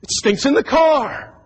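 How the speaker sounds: wrinkle your nose at it; disgusted complaint. Retold or imitated. Man pacing the house, grossed out. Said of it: "he went outside and".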